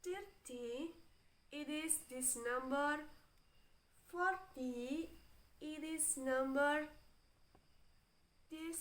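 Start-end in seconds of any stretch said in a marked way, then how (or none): 0.0-0.9 "thirty" with the weight on thir; THIR-ty, teacher's careful demo; first-syllable stress. Shown as a demonstration. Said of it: "stress on the first". 4.1-5.1 "forty" with the weight on for; FOR-ty, teacher's careful demo; first-syllable stress. Shown as a demonstration. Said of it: "stress on the first".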